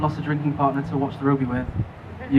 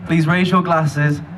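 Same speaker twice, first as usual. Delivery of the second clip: slow, raised toast to the couple; wedding toast speech; slower than usual. Real, not acted. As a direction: lift your glass and toast them slowly. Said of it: "Can you join me in a toast?".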